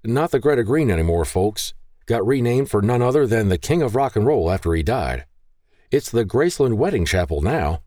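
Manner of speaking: a touch of a chatty tour driver; shuttle driver. Acted. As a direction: set the folks straight with a grin in the voice. Shuttle driver corrects passengers.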